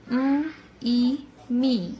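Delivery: ای stretched long and slow before می; long drawn E. Shown as a demonstration. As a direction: draw out the vowel in ام ای. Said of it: "ای کی sound ایک لمبی اور کھینچی ہوئی آواز". (ای کی لمبی کھینچی ہوئی آواز)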